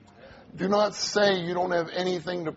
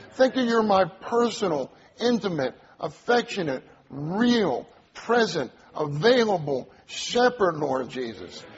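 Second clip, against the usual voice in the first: fervent demonstrated prayer. Shown as a demonstration. Preacher showing how to pray the words back to the Lord, fervent prayer. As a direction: pray it aloud with building emphasis, then settle. Models praying the verse back.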